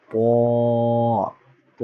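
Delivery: "প" said thick and hard; thick, hard sound. Shown as a demonstration. Teacher shows students a letter that must be thick, thick and hard. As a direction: make "প" heavy and firm. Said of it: "শক্ত হবে, মোটা হবে এবং শক্ত হবে".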